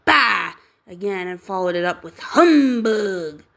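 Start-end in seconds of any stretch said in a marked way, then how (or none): 0.0-0.5 loud gruff scoff; gruff bah. Acted. Scrooge repeats his scoff. 2.2-3.4 loud scornful grumble; scornful humbug. Acted. Scrooge repeats humbug.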